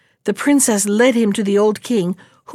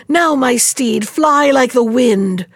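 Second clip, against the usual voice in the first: mild shout; 2 semitones higher, slower than usual. Acted. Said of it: "he shouted".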